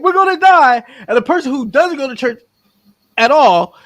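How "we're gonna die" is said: imitating crying panic. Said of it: "is crying".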